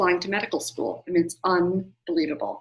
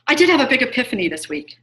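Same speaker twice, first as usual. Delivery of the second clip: eager burst; 4 semitones higher, 4 dB louder, faster than usual. Real, not acted. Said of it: "Oh, thanks, Linda".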